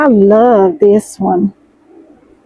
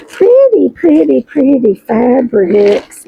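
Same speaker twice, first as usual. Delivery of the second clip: excited; slower than usual. Real, not acted. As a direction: gush over the fabric. Delighted unboxing fabric.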